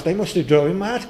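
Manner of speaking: ordinary delivery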